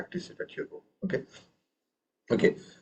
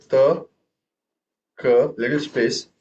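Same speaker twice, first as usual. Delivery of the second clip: 1 spaced taka; 2 semitones higher, 3 dB louder, much slower than usual. Shown as a demonstration.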